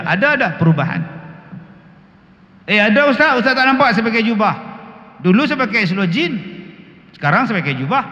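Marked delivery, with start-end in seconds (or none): 2.6-8.0 lightly voiced student, higher and quick; a hint of a proud young student; eager student voice. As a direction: boast to the ustaz about the robe. Student voiced answering ustaz.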